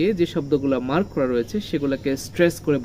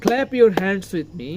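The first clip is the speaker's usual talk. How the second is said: slow line with weight on Clap and hands; stress CLAP and HANDS; 3 semitones higher, much slower than usual. Shown as a demonstration. Teacher modelling for pupils, Clap and hands stressed. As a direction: lean on Clap and hands, ease off with me. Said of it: "clap এবং হ্যান্ডস এর উপরে stress রয়েছে".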